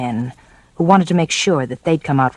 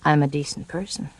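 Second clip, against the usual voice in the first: soft coy; 9 dB quieter than usual. Acted. Coy reply.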